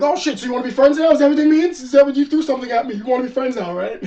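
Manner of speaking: squeaky, excited Luffy voice; Luffy impression. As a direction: bounce it out like a hyper cartoon hero. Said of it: "Luffy being Luffy, it's like".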